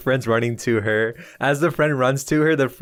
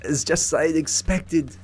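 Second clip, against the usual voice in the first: smug killer line; 4 semitones higher than usual. Acted. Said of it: "You can hear Boulier go".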